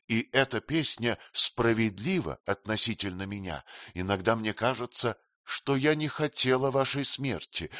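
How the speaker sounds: lightly voiced queen, teasing and frank; Sitabhai, lightly voiced. (слегка изображённая царица, кокетливо)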